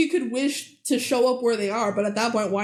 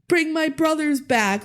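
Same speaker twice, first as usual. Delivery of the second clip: mock bad spell; 4 semitones higher than usual. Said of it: "she's just doing this so bad".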